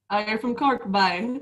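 lightly imitated Cork Irish accent. Imitating Cork locals for the host, light Cork accent. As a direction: put on a bit of a Cork lilt. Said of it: "like, Cork, they say, like".

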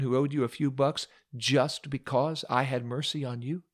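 a scowling king confronting his servant; king's rebuke. Acted. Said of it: "The king's smile soured to a scowl".

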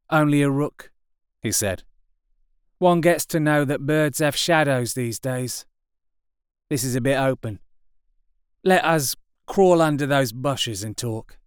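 gruff possessive survivor; artilleryman. A narrator's reading. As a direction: warn him off his patch. Artilleryman warns.

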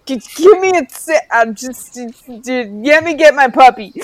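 frantic, high and loud; flailing panic while stuck; flustered. Retold or imitated. Acting out clumsy escape.

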